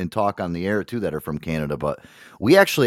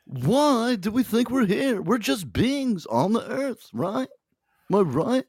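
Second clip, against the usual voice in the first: high-pitched, slow put-on pondering voice; mock philosopher; 12 semitones higher than usual. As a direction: ponder existence in a high, silly voice. Mock musing on whether we exist.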